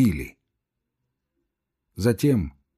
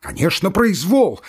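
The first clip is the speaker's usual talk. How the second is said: emboldened shout; 8 semitones higher, 4 dB louder than usual. Acted. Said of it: "подбодряемый криком Ивана Дмитрича".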